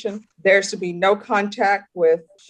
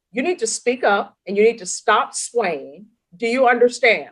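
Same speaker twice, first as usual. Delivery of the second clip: firm, emphatic order from the bench; insistent courtroom scolding; stern reprimand; 3 semitones higher than usual. Real, not acted. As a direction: lay down the law to a defendant. Judge ordering defendant to behave.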